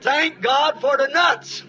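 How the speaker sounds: chuckling through the words, slowed down; a gleeful retold quip, laughing; laughing joke. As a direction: say it with a laugh breaking in. Convert joking, laughing.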